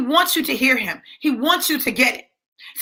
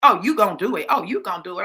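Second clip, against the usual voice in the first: lower, insistent sassy retort; 4 semitones lower, faster than usual. Acted. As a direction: play a sassy comeback, pitched down. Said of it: "he gets sassy right back".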